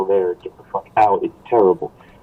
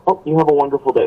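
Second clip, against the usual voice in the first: lightly put-on, higher-pitched customer service sign-off; 6 semitones higher, faster than usual. Imitating own slip with a cashier, customer service voice. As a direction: say it like a phone agent, pitched up. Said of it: "customer service voice thing going".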